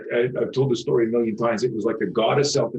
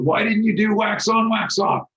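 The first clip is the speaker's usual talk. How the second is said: much higher and a bit louder, a playful put-on teacher voice; movie sensei quote; 12 semitones higher, 3 dB louder than usual. Quizzing a beaten student with a movie line, in a much higher playful sensei voice. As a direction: toss it off like the Karate Kid master. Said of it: "I said to Mitchell".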